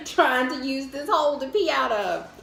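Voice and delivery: a laugh breaking in, then words; amused at her own mishap; laughing through it. Real, not acted. Laughing at herself, telling a friend about the bathroom.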